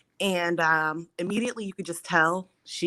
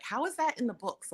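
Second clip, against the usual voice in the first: retold shock; 7 semitones higher, 4 dB quieter than usual. Patient questions her doctor about the textbooks, retold higher-pitched shock. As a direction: replay disbelief in a higher voice. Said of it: "And I was shocked".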